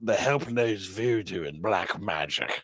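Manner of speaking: a lightly voiced outraged father; mock stern dad. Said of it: "Gene's dad was like".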